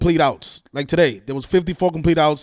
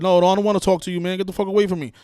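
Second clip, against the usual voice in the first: dismissive retold quote, slightly raised; brush-off; 3 semitones higher, 3 dB louder, faster than usual. Retelling how he refused to talk, mildly dismissive. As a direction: imitate a man brushing you off. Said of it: "he just brushed me off".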